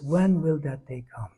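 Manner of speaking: "When" leaned on, then a falling line; stress on When. Shown as a demonstration. Teacher naming the prayer's emphasis, stress on "When". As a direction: put the weight on "When". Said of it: "the emphasis is".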